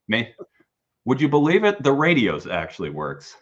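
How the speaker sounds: high, loud, amazed movie-character line; quoting a movie line. Retold or imitated. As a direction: pitch it up like a stunned traveller telling the joke. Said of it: "what's the line from, uh, Planes, Trains, and Automobiles?".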